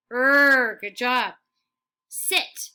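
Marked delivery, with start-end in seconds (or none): 2.1-2.7 Sit said in a whisper; whispered word. Shown as a demonstration. Teacher modelling a word for kids, whispered. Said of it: "teacher whispers model word".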